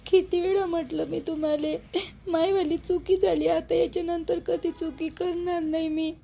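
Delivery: crying. Acted. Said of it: "रडणं बंद कर आता".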